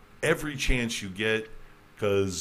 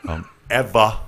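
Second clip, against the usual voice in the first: laughing; 9 dB louder than usual. Real, not acted.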